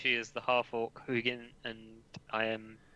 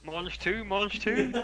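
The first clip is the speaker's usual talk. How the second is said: high, rising mock French accent; hammed-up French accent, climbing in pitch; mimicked French accent; 9 semitones higher, slower than usual. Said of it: "could you all mimic her?".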